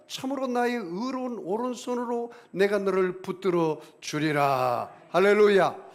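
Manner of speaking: loud, high, fervent scripture cry; preaching at full force. Acted. Pastor crying out scripture to the congregation, loud and fervent. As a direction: build it to a shouted hallelujah.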